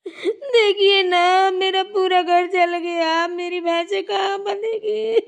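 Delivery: crying. Acted. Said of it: "कैसे रो रही है।".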